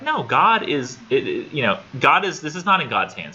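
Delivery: laying into her. Retold or imitated. Doctor correcting his patient's excuse, laying into her. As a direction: retell a tough-love doctor firmly objecting. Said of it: "he's laying into her thick".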